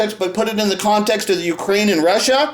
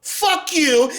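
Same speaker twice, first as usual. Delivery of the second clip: higher, yelled curse; a raw, higher-pitched shouted curse; defiant shout; 7 semitones higher, much slower than usual. Real, not acted. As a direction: hurl it at them. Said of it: "And I'm here saying".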